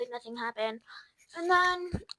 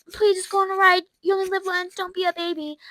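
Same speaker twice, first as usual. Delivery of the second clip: mock pleading friend; 6 semitones higher, 5 dB louder than usual. Friend begging, retold.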